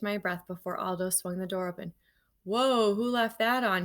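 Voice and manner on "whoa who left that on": exclaiming. Acted. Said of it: "he exclaimed".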